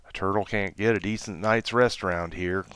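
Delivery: whispered, weary grumble; sighing grumble. Acted. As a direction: sigh it out, put upon. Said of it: "Terence sighed".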